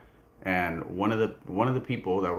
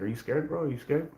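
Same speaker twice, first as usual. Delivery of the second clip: taunting quote; 6 semitones higher than usual. Retold or imitated. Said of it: "trying to put fear into me".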